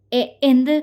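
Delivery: a stuttered, flustered question; lightly acted stammer. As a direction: trip over the first sound. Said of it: "വിക്കിക്കൊണ്ട്".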